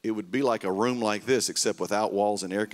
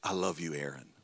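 tender voice of God; 6 semitones lower, 7 dB quieter than usual. Retold or imitated. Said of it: "just said to me".

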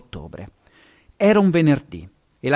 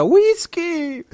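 roared name again. A narrator's reading. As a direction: bellow it out after the dog. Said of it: "e ancora una volta". (grido acuto)

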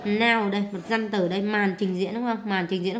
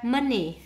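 "money" with a higher, stressed "mo"; first-syllable stress; 4 semitones higher, 3 dB louder than usual. Shown as a demonstration. Teacher marking word stress, "money" stressed on the first syllable. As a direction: put the weight on MO in "money". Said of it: "nhấn âm một".

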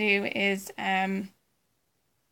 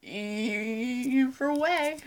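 Ralph impression; much slower than usual. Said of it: "that was my Ralph impression".

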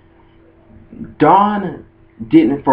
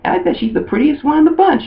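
very high, gushing girly imitation; Lyra. Matchmaker complimenting her friend to Ash, high mock gushing. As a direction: gush in a squeaky put-on girl voice. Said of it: "And Lyra was like".

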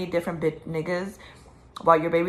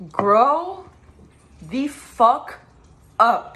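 higher, louder, each word hammered out; furious shout; 5 semitones higher, 6 dB louder, much slower than usual. Real, not acted. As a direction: yell it at them, fed up. Shouted at the couple.

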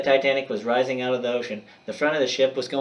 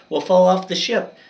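high, loud frightened shout; 7 semitones higher, 6 dB louder than usual. A narrator's reading. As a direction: yell the warning, much higher and louder. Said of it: "shouted Jack".

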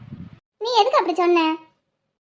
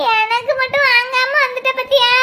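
crying complaint. Acted. Girl tells her cousin he forgot her gift, crying complaint. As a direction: wail at being left out. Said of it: "தேனு, தேனு, அழாத".

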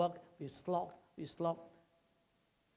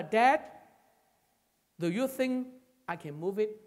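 put-on higher and louder, an eager small boy asking; little boy voice; 4 semitones higher, 7 dB louder than usual. A little boy asks his father about the rock, high and loud. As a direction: pitch it up like a hopeful child.

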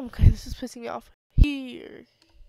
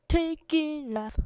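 slow sing-song take; 4 semitones higher than usual. Pretend. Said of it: "take two".

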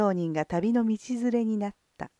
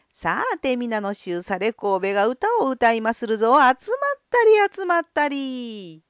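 barker's call; 2 semitones higher, 3 dB louder than usual. Acted. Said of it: "と叫んだ".

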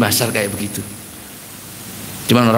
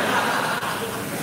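laughing; 8 semitones higher, 4 dB quieter than usual. Real, not acted.

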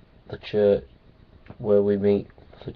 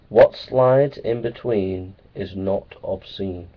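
slow riddle; 3 semitones lower, slower than usual. Shown as a demonstration. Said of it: "Here's the riddle".

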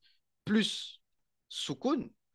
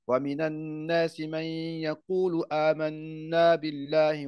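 Quran recitation. Acted. Teacher recites the start of al-Baqara, chanted. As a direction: recite with long held madd.

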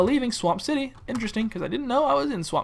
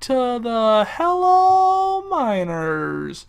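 drawn-out promo voice, stretched key words; mock advert pitch; 2 semitones higher, much slower than usual. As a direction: sell it like a hokey local ad.

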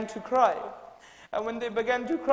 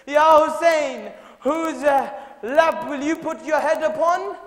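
mournful appeal; 5 semitones higher, 9 dB louder than usual. Acted. Poets' lament addressed to Hussein.

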